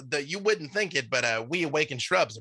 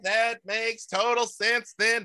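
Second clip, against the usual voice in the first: awakened shrub; 3 semitones higher than usual. Acted. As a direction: apologize cheerfully as the shrub. GM voices the shrub again.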